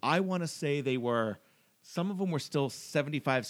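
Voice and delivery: lightly voiced grumpy old-timer; a hint of a crusty old man reminiscing. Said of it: "cue old-timey voice and music".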